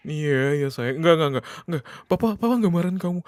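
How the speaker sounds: high, hurried soothing over crying; flustered reassurance. Acted. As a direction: scramble to reassure an upset child. Father hurriedly reassures crying child. (menenangkan anak dengan panik, nada tinggi)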